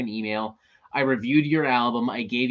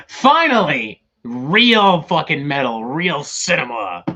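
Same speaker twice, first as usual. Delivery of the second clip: mock cheer; 6 dB louder, slower than usual. Mock cheer at fan suggestion.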